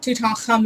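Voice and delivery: Tutankhamun with a guttural kh; imitated Egyptian kh in Tutankhamun; hawking throat sound. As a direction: scrape the kh in Tutankhamun like clearing the throat. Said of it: "sounds like he's almost hawking a loogie".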